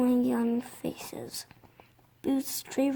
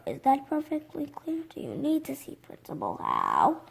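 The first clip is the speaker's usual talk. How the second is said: scolding teacher; 4 semitones higher than usual. Acted. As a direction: tell the boy off sharply. Teacher scolds Iggy in class.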